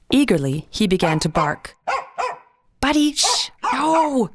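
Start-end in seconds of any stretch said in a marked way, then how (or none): 2.8-4.3 mild snap. A narrator's reading. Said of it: "she snapped".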